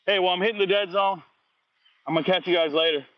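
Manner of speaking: ordinary talk, nothing marked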